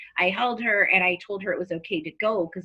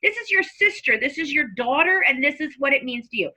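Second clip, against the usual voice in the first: retold anger; 4 semitones higher than usual. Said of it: "And I'm like".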